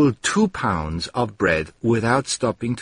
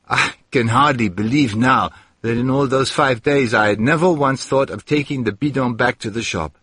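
ordinary delivery

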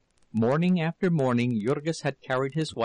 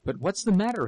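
cry out; 6 semitones higher, faster than usual. A narrator's reading. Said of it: "he cried".

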